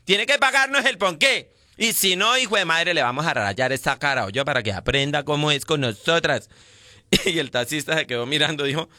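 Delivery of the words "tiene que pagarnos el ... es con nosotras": campy friend voice. Retold or imitated. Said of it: "Y dice la otra loca".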